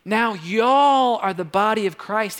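slow Southern drawl on y'all; Southern accent. Acted. Pastor reads Corinthians to congregation, Southern accent. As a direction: stretch the verse out in a Southern accent. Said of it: "Just kept going in a Southern accent there".

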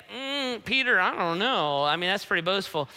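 skeptical hum, then gentle doubt; hesitate, unconvinced by a friend's boast; lightly acted reluctant disagreement; doubtful. Jesus doubting Peter's boast.

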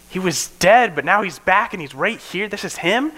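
high, rising joyful recognition; joyful disciples. Retold or imitated. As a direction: disciples realizing their risen leader is back, high and joyful. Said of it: "that turns to joy as they realize".

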